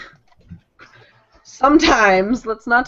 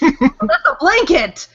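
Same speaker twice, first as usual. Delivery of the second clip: surprised; 9 semitones higher, 4 dB louder, slower than usual. Real, not acted. Exclaims at miscategorized item.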